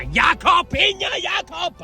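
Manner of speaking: high, crowing nickname; excited name call. Real, not acted. Christening a friend with a new nickname, crowing.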